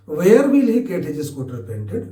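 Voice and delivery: very slow, each word separate; slow dictation. Shown as a demonstration. Teacher showing students the question forms, slow dictation. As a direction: lay the questions out slowly for learners.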